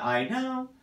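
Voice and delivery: high I know, cut short; wrong version. Shown as a demonstration. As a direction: imitate the unsupported ending. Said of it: "how it's not".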